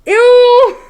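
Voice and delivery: sharp high grossed-out cry; loud shriek of disgust. Real, not acted. Sudden disgust at something.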